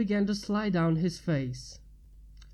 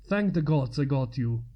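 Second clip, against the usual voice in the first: relieved rescuer; 6 semitones lower than usual. A narrator's reading. Rescuer voiced in story.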